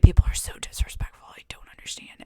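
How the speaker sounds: low, soft grumble; mock muttering manager; grumbled. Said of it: "he grumbled it".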